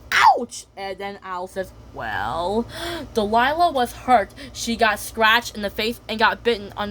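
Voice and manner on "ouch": high, loud ouch; pained squeal. Acted. Cat squealing high and loud when bitten. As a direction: yelp with pain. Delilah hurt.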